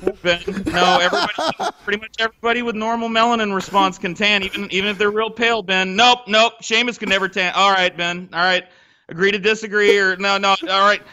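mock-exasperated pushback, lifted high; exasperated retelling. Retelling argument with Ben, exasperated.

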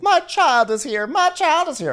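very high-pitched frantic wail; hammed-up panic, pitched sky-high; mock ranting. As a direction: imitate a hysterical mother. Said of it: "this lady is still ranting".

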